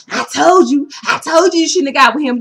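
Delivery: mock I-told-you-so. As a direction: rub it in, imitating a know-it-all. Mimics an I-told-you-so friend.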